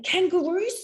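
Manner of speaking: high, laughing Kangaroos? Koalas?; tossing out clues through a laugh; laughing questions. Retold or imitated. Hinting at Australia with animals.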